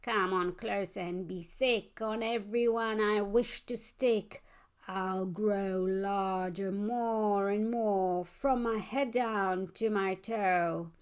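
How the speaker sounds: slow, drawn-out menacing monster voice; a creeping, boastful monster. Acted. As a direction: stretch it out like a growing monster.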